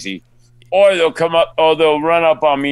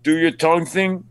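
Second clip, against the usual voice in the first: higher, lightly acted wheedling; pleading fan; 5 semitones higher than usual. Fan asking the actor a favor, mildly pleading imitation. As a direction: beg a favor like an eager fan.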